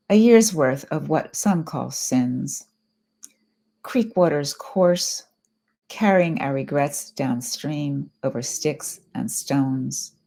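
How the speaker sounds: measured poetry reading, slowing at line ends; poem reading. Acted. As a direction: read it as verse, lingering on the closing words. Reads a poem aloud.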